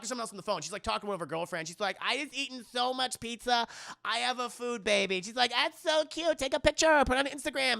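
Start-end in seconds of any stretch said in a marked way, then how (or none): 2.0-5.2 higher-pitched mock girlfriend voice; chatty sorority girl. Sorority girl confessing to her friend, girlish. Imitating sorority girls on the phone. 5.5-7.8 high, loud mock girly squeal; gushing girlfriend. Girlfriend admiring her food baby, gushing.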